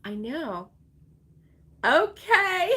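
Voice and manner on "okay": sudden high startled okay; jolted by the dog barking. Real, not acted. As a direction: yelp of surprise at a barking dog. Dog barks mid stream, startled.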